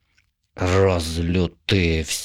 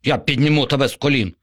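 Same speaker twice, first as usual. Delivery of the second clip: assuring zombie; 6 semitones higher, much faster than usual. A narrator's reading. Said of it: "запевнив зомбі".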